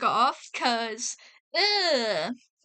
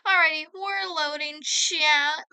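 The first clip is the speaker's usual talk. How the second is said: playful "um, actually" voice; nerdy know-it-all voice; 3 semitones higher than usual. Pretend. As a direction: put on a mock pedant voice for chat. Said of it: "so much fun to talk in that way".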